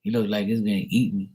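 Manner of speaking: high mock frightened stranger; lightly voiced pedestrian backing off; scared passerby. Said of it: "It's like".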